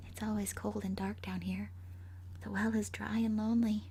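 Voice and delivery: eerie whisper. A narrator's reading. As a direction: whisper the refrain like a ghost. Ghost refrain repeated.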